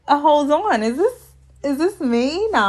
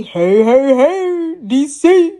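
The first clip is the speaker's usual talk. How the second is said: higher, a bit louder, hyping up the crowd; mock TV-host greeting, waiting for applause; imitating Tommy's hype; 4 semitones higher, 5 dB louder, slower than usual. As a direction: call out like a host working the room. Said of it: "Y'all know how Tommy be".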